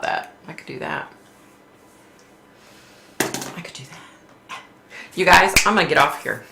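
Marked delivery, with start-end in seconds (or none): 3.2-4.6 slow, breathy whisper of the same words; hushed, slow aside; whisper to herself. Real, not acted. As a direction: murmur it as a private thought.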